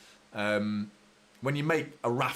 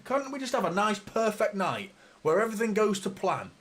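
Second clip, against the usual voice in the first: higher, wishful moan; plaintive whine; 6 semitones higher than usual. Real, not acted. Fan moaning to his viewers about a ruined night. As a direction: wish the night had gone smoothly.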